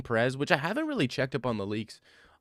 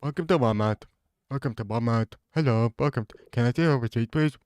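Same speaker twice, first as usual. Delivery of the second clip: greeter voice. Retold or imitated. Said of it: "the guy who sits at the front and says".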